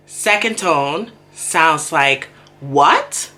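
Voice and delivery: what said as a rising question; slow tone demonstration with a rising what; tone demo. Shown as a demonstration. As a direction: lift what upward like asking. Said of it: "in my head, I have to say".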